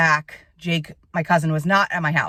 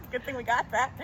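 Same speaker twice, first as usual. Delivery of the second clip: laughing shout; 4 semitones higher, 9 dB quieter than usual. Real, not acted.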